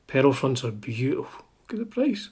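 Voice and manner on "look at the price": hushed aside at the price; whisper. Real, not acted. Guitar vlogger whispering at the price tag. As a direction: whisper it like a secret.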